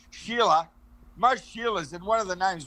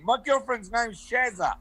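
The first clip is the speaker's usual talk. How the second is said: slow demonstration; slower than usual. Shown as a demonstration. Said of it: "Say that again".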